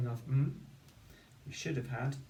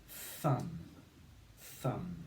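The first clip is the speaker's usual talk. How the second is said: «thumb» slow and drawn out; slow dictation; 5 semitones lower, 3 dB quieter than usual. Shown as a demonstration. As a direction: say «The word is thumb» slowly. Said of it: "what about this word".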